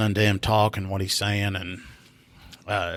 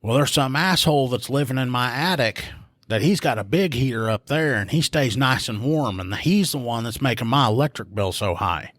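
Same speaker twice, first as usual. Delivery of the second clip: put-on higher, aggrieved drunk woman complaining; mock caller voice; 4 semitones higher than usual. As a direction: whine it like the caller.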